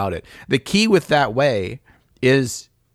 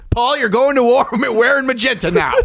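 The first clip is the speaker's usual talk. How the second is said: high-pitched command broken by laughter; laughing mock order; 10 semitones higher, 3 dB louder than usual. Joking about soldier's uniform colours, laughing mock order. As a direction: declare it absurdly, cracking up.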